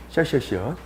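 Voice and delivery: 시엇 chanted with a soft sh sound; 시엇 repeated quickly as shuh-ut; slushy sh for s. Shown as a demonstration. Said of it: "어떻게?".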